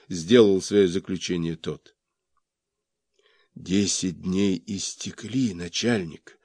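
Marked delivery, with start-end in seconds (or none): 3.5-6.4 whisper. A narrator's reading. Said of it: "прошептал я".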